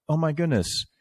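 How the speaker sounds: high-pitched imitation of a welcoming older sister; imitated welcoming. Host imitates guest inviting him along like an older sister, welcoming. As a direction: usher them in, voice lifted high. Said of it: "You've just always been so welcoming".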